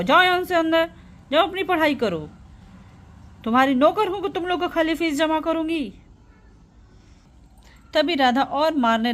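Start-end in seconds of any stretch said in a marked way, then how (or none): 0.0-5.9 put-on cross mother sending children away; acted exasperated rebuke; angry scolding. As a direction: order them off in sharp irritation. Mother orders children away angrily.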